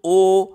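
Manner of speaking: ओ held out slowly for two beats; long vowel. Shown as a demonstration. Teacher demonstrates vowel length for the answer, long ओ. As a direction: draw ओ out on a steady note. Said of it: "इसमें दो मात्रा का समय लगेगा".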